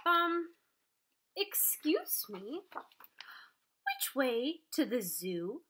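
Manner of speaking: slow, drowsy lightly voiced sloth; a hint of a slow, groggy sloth; sleepy sloth. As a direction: stretch it out like a just-woken sloth. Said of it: "He slowly lifted his head and said".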